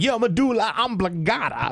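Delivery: high, unhinged outburst; Nick Cage. Retold or imitated. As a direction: burst into a crazed movie freakout. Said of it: "he gets into that, like, he's just kinda crazy Nick Cage".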